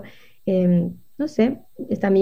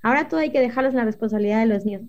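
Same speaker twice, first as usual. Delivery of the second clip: exasperated parent; 2 semitones higher, faster than usual. Retold or imitated.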